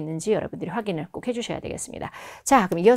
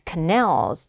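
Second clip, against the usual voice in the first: "canals" as ca-NALS, weight at the back; stress on second syllable; 2 semitones lower than usual. Shown as a demonstration. Teacher models the word in a sentence, "canals" stressed on the end. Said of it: "뒷부분에 강세".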